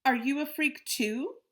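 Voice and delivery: high, loud, slow sneer; a bully sneering at a newcomer; sneering taunt. Acted. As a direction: drag out the insult mockingly.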